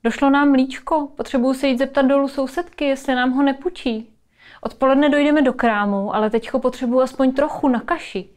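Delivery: lightly voiced busy mother; máma ve spěchu. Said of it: "A máma najednou přichází a říká ti". (lehce zahraná maminka ve spěchu)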